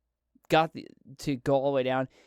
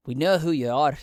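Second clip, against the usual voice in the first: louder threat; 6 dB louder than usual. Acted. Rebel repeats the accusation.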